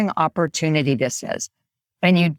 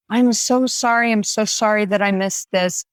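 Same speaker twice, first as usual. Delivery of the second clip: mildly effusive apology, pitched up; higher-pitched imitated apology, easing down; apologetic; 4 semitones higher than usual. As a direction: act out a quick reply saying you're sorry. Acted apologetic reply to an emailer.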